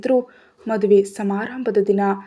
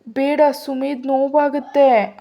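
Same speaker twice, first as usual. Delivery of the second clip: put-on crying child; 5 semitones higher than usual. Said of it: "ಅಳ್ತಾಳೆ Aarohi".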